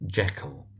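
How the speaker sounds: Jekyll said JECK-ull; stress on Jeck. Shown as a demonstration. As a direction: punch the first syllable of Jekyll. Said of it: "emphasis on the Jeck part".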